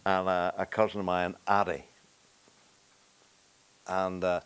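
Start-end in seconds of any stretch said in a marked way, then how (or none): none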